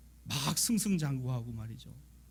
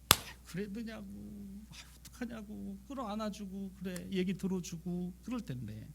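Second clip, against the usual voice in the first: soft comforting; 4 semitones higher, 8 dB quieter than usual. Pretend. How we would comfort her.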